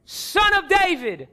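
high, slow drawn-out call; acted yell. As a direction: cry out over a crowd to get attention. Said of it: "he yelled even louder".

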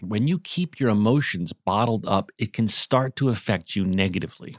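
scripted podcast sponsor read. Acted. Host describing stress for a therapy sponsor, measured ad read. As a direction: deliver it to listeners as prepared copy.

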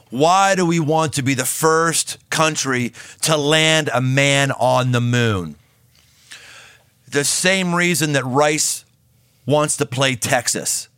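put-on slow, stately Boston accent in JFK's manner. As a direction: give the speech in a light Boston accent, slowly. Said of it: "with his Boston accent".

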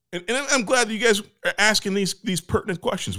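high, fast sing-song delivery; exaggerated cartoon intonation. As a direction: overplay every rise and fall. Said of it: "Why are you talking like this".

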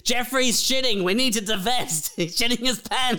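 high, alarmed office panic; mock panicked staffer. Staffer warning colleagues to divest, high and alarmed. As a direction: sound the alarm to the team.

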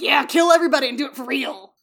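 loud, gleeful Roman crowd shout; rowdy mock cheer. Romans demanding real deaths on stage, loud mock-bloodthirsty cheer. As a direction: cheer it on loudly, hammed up.

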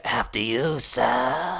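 slow courteous manatee. Pretend. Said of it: "I like that voice".

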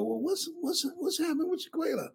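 put-on cheerful parent asking about the girl; asking about daughter.

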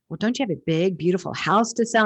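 hint of a staged public announcement; mildly loud announcement. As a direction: lightly act out a loud, pointed question. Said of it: "he says it really loudly".

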